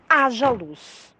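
ordem pausada de Deus, lida devagar; Deus ordenando. Retold or imitated. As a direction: speak it slowly as a divine decree. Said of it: "E disse Deus". (ordem de Deus, pausada)

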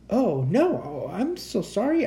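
high, hurried-to-please apology; flustered apology. A narrator's reading. Hanging boy apologises to angry creature.

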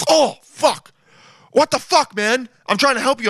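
wounded salesman voice, hammed up; hurt pillow guy. Imagined pillow guy after being punched, whiny and offended. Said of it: "he'd be like".

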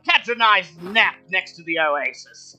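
a lonely camel finally meeting visitors, delighted; high cheerful talking camel; friendly camel. Acted.

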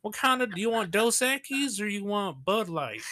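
high-pitched, hammed-up Southern twang; stereotype Southern accent. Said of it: "stereotype, like, Southern accent".

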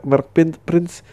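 ordinary talk, nothing marked

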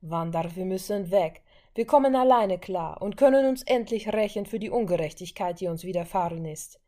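insistent brother. Acted. Pietro insists.

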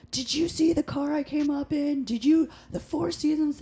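high-pitched mocking imitation of a braggart; entitled customer. Server mimics a customer boasting to the owner, indignant and entitled.

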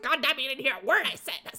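a touch of mock fury; mock frustration. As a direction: vent at being ignored. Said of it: "I was like".

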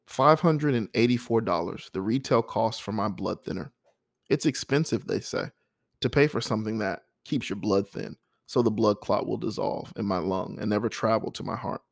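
measured poem recital; poem reading. Acted. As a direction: speak the verse steady and deliberate. Reads next poem aloud.

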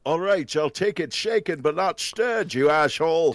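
a loose Scottish Sean Connery voice, pitch up; Sean Connery impression. Impressionist doing Sean Connery for the host, loose Scottish voice. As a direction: play Connery ordering his drink, lightly Scottish. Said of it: "You wanna hear my Sean Connery?".

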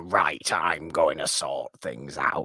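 slow, whispered, half-hearted pirate captain; a bad, breathy stab at a pirate; terrible Barbosa impression. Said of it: "That was a terrible impression of Barbosa".

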